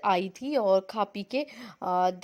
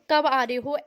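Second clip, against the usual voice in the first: lightly voiced sister asking when she's coming; mock the sister's urgent question, a bit louder; a hint of the sister on the phone; imitating sister's question; 3 semitones higher, 4 dB louder than usual. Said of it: "इस तरीके से बोला ना".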